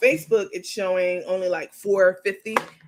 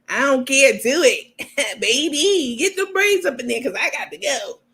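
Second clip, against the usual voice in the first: impatient customer; 5 semitones higher, 4 dB louder than usual. Retold or imitated. Customer's impatient reply to braider.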